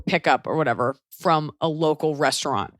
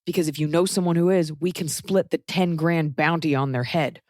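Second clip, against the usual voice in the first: sly mock doctor. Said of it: "Be like".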